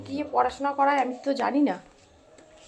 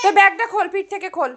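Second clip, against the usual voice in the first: loud; 4 semitones higher, 5 dB louder than usual. Real, not acted. Mother scolding child about bag.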